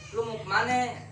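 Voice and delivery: "kemana" said as "kemane" with an open e at the end, lightly Betawi; teacher shows the class how a Betawi speaker asks it; Betawi accent. Shown as a demonstration. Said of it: "Ada e-e-nya terakhirnya". (guru mencontohkan logat Betawi, "kemane" dengan e di akhir)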